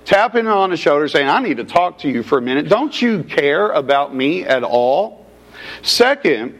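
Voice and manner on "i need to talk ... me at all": huffy complaint. Retold or imitated. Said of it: "approaching him with a huff".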